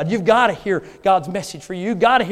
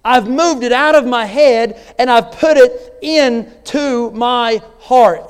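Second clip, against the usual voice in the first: louder, insistent sermon drive; preaching; 4 semitones higher, 5 dB louder than usual. Acted. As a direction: press the congregation hard. Preaching with rising force.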